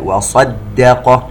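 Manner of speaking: وصدق with a full emphatic صاد and a thin دال; وصدق, emphatic s followed by plain d; heavy then light. Shown as a demonstration. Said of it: "تفخيم الصاد وترقيق الدال".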